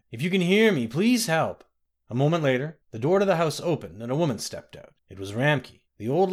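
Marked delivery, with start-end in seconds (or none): 0.1-1.6 high, loud, desperate plea; a loud, high sobbing call for help; crying out. Acted. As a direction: beg for help through tears. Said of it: "she cried".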